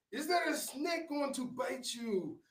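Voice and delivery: playful concierge. Retold or imitated. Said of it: "concierge questions continue".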